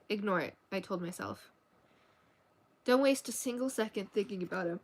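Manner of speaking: even, measured novel reading; story narration. A narrator's reading. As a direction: read the story aloud evenly. Reads a novel aloud.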